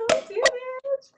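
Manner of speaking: high shrieking squeals, laughing and yelling; thrilled shrieks. Real, not acted. Couple celebrating their million, thrilled shrieks. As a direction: shriek with joy as the cork goes.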